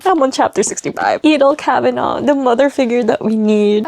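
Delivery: ordinary talk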